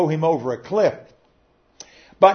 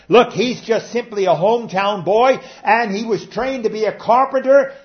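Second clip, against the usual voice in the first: loud, higher, slowing scorn; mocking; 6 semitones higher, 6 dB louder than usual. Preacher voicing the synagogue crowd's scorn, loud sneer. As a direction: sneer him down as a lazy nobody. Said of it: "So they were mocking him".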